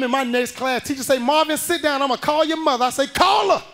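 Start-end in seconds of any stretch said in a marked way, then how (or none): 1.2-2.8 raised, scolding teacher voice; stern teacher. Retold or imitated. 3.1-3.6 high, loud defiant bark; defiant shout. Retold or imitated. Kid copying defiance.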